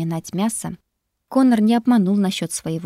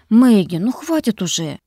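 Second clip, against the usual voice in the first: pleading; 3 semitones higher, 6 dB louder than usual. Acted. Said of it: "взмолился Коннор".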